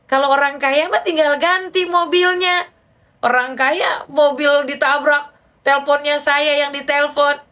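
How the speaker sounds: high, mock-incredulous jibe; teasing. Answering a friend whose car was hit, teasing. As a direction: rib the rich friend, drawing words out. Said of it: "Saya bercandain kan".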